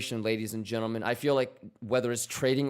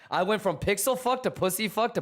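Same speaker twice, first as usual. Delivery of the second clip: high, laughing through the words; 7 semitones higher than usual. Real, not acted. Cracking up at his own slip of the tongue to chat, laughing. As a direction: crack up mid-sentence at the slip.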